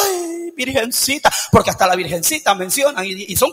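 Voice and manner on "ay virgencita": drawn-out imitation wail; mock crying. Preacher mimicking sentimental sisters who come crying, mock wail. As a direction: wail slowly like a sentimental churchgoer, hammed up. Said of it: "van a ir llorando".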